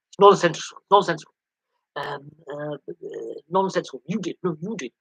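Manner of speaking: hammed-up Trump bickering; Trump impression. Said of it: "my Trump impersonation".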